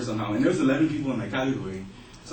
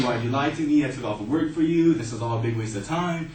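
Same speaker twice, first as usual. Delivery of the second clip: mock yelling mom; 3 semitones higher, 4 dB louder than usual. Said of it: "She started yelling".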